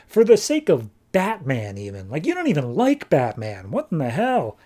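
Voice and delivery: mock-incredulous God; incredulous questioning. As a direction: scold them in baffled disbelief. God confronts Stranger over his choices.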